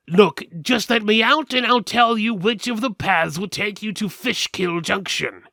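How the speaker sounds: high, loud put-on skeleton voice; a caged skeleton talking big to strangers. Caged skeleton pleads with the party, high and loud. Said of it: "the skeleton said".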